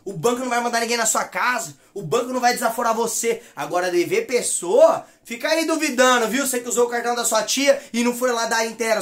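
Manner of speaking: ordinary delivery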